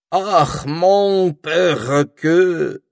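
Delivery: put-on high, loud, drawn-out French-accented sigh; вздох с французским акцентом. A narrator's reading. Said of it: "вздохнула мадам Гортензия". (томно и протяжно, с французским акцентом)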